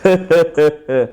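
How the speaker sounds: put-on film-star laugh; Nagarjuna. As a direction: chuckle in character before the lyrics. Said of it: "అనగా నాగార్జున గారు".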